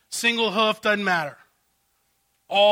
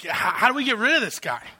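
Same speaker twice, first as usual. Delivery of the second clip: quick, exasperated higher plea; exasperated servants; 5 semitones higher, faster than usual. Acted. Servants begging Pharaoh to be rid of Moses, rushed and pleading. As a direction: rush the question in frustration.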